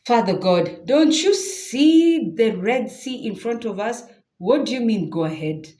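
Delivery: disbelieving cry to Father God; incredulous plea. Acted. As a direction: protest as if he can't be serious. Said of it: "you almost want to tell him".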